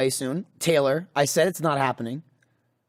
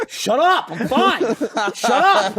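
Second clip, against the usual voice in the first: loud, high, exasperated outburst; retold yelling; 7 semitones higher, 5 dB louder, slower than usual. Gamer to apologizing girlfriend, exasperated mock shouting. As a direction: re-enact snapping back at unwanted sympathy. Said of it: "I tend to yell at them".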